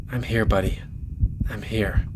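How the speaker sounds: soft, hushed reassurance; tender comfort. Acted. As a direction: soothe a terrified friend gently. Friend comforts him tenderly.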